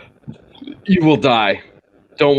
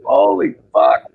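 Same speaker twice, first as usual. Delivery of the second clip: very high, louder startled outburst; shocked monkey; 4 dB louder, slower than usual. Acted. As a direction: yelp it up high in disbelief. Monkey reacts in joke.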